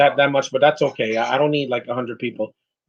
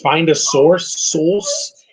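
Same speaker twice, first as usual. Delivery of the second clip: slow, drawn-out imitation of a British accent; mock British accent; much slower than usual. Viewer mocking British actors' pronunciation, mock British accent. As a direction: mimic a British "source", stretched out. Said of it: "It's like they're saying sauce".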